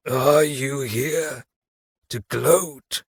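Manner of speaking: slow, drawn-out hollow murmur; murmured corpse voice. A narrator's reading. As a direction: murmur it from the dark. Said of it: "Cassian murmured".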